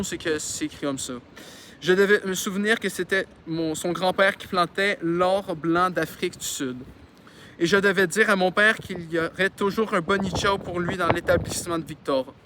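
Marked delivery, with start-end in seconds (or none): 1.8-12.3 reading a novel aloud; story narration. A narrator's reading. Reader telling a childhood story to listeners, narrating. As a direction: narrate it clearly, with lively phrasing.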